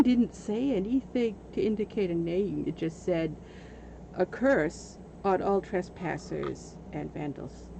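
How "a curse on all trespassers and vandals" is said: low, slow spooky reading; ominous sign reading. Retold or imitated. Reading the curse sign aloud, ominous and slow. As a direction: read it like a dark curse.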